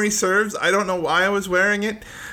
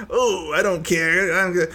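mock nonchalant; slower than usual. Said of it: "he tried to act like".

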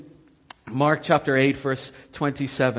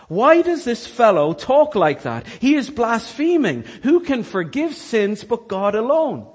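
indignant scribes; 6 semitones higher, 4 dB louder than usual. Acted. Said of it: "they're thinking to themselves".

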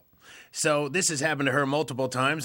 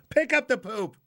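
emphatic plea; 7 semitones higher than usual. Real, not acted. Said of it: "pleading to dog owners".

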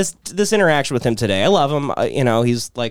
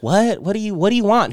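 higher-pitched imitation of a puzzled neighbor; distant reply; 6 semitones higher than usual. Neighbor answering from afar, mock puzzled call. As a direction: answer as if from down the street, lightly acted. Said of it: "in the distance".

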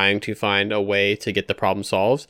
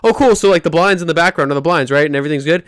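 much higher, louder, fake-cheery realization; mock naive delight; 6 semitones higher, 8 dB louder, faster than usual. Mocking a twist ending for his friend, fake-cheery and high. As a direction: play the fooled moviegoer gushing.

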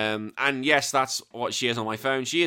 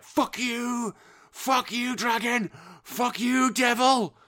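high-pitched imitated yelling; mock rage; 12 semitones higher, much slower than usual. Host reliving beating Cuphead bosses, mock fury. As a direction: relive the frustration, hammed-up. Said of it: "I literally was like".

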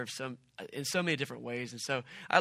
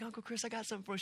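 higher, lightly voiced eager little girl; a hint of a sweet kid handing over a gift; sweet little niece; 8 semitones higher, 5 dB quieter, much faster than usual. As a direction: uncle retelling his niece's words in a mild kid voice. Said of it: "She's like".

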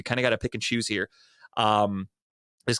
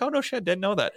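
sarcastic; 9 semitones higher than usual. Retold or imitated. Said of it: "Everybody else listening was kinda like".

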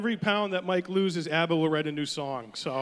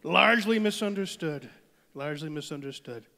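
Trump impression; 2 semitones lower than usual. Trump boasting about his friend Rocket Man, mild Trump voice. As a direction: praise the dictator smugly.

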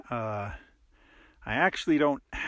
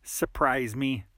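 sarcastic. Acted.

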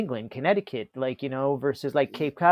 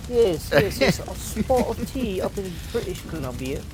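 playful put-on British accent, pitched up; 4 semitones higher than usual. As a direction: do a mock British accent about a spot of tea. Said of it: "the British accent".

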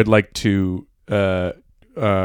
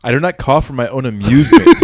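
fretful; 3 semitones higher, 6 dB louder than usual. Retold or imitated. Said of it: "replies Kitty fretfully".

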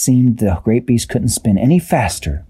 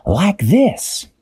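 high character voice; Dashi's voice; 10 semitones higher than usual. A narrator's reading. Dashi to crew, high pointing call. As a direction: lift into a high squeaky kid voice. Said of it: "Dashi said".

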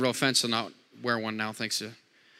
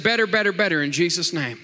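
proclaiming better; 2 semitones higher, 3 dB louder than usual. Shown as a demonstration. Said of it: "I said".

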